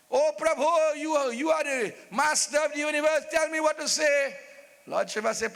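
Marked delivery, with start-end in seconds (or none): 0.1-4.4 raised, theatrical appeal; imploring prayer. Acted. Desperate king turning to Lord Shiva, imploring. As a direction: call out to a god for help. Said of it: "he turned to Lord Shiva".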